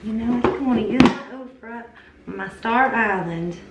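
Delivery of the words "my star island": slow, drawn-out southern twang on Star Island; unplanned southern drawl; southern accent. Real, not acted. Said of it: "I don't know why I get that, like, southern accent".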